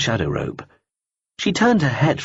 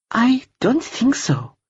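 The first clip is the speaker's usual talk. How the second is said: higher, slow, cool woman's voice; a cool, polite stranger brushing him off; lightly voiced woman; much slower than usual. Woman character voice.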